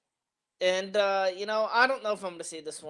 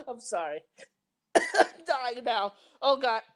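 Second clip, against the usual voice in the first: breathless from laughing, slow; after laughing hard; 6 semitones higher, slower than usual. Real, not acted. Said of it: "I need to compose myself".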